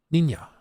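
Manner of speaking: "ninja" as nin-ya, set apart; attempted authentic pronunciation. Shown as a demonstration. Self-described very white guy testing the word, authentic-style pronunciation. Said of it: "get away with, like".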